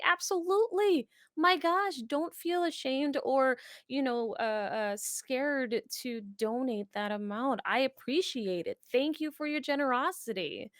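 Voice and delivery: effusive reassurance. Retold or imitated. Reassures donor worried about small gift.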